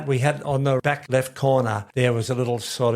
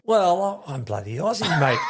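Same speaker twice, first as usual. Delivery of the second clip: laughing shout; 5 semitones higher than usual. Real, not acted. Laughing protest at being called British.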